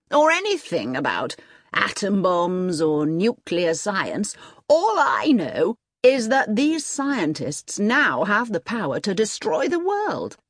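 slow, weighty emphasis rising in pitch; lightly voiced emphatic colonel. Colonel warning Jessup about scientists' power, emphatic. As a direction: lean on the danger, lightly acted.

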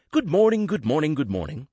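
first "Good morning" leaps high and loud, then bouncing repeats; jovial greeting. Acted. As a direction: breeze into the office in a great mood. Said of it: "when we're being jovial".

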